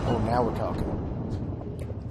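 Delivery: drawn-out, pleased and slow; slow satisfied drawl. Real, not acted. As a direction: savor each word slowly.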